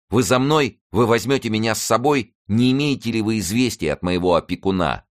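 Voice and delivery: high-pitched, eager questioning; eager exclamation. A narrator's reading. Youth asking friends for news of his guardian, eagerly. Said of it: "воскликнул он".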